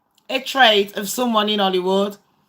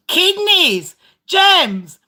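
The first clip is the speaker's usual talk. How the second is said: laughing; 7 semitones higher than usual. Real, not acted. Laughing at an absurd answer.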